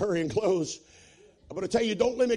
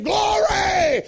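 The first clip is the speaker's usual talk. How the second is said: high, loud cry of praise; joyful shout; 10 dB louder than usual. Acted. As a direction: burst out with praise. Friend hugs him, shouting praise.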